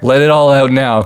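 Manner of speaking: high, loud, elated celebration.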